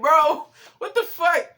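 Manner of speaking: cracking up in disbelief; laughing disbelief. Real, not acted. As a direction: laugh it out in shock. Reaction to mom's comment.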